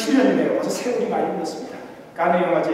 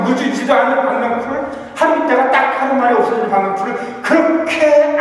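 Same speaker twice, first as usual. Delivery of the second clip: God pleading with Jonah; 3 semitones higher than usual. Acted. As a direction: draw out each clause like God gently rebuking. Preacher voices God's question to Jonah.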